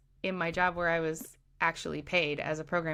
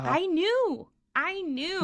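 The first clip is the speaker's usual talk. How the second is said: high mocking; 11 semitones higher, slower than usual. Voicing others knowing.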